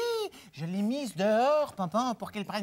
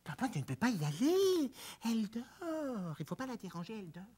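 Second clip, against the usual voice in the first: 1 hushed; 6 dB quieter than usual. Acted. Hushing, plant is sleeping.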